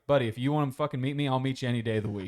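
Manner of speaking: fast, clipped challenge; threat. Retold or imitated. Andrew offering to meet the guy any day, fast. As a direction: rattle off a quick threat. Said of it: "he was basically like".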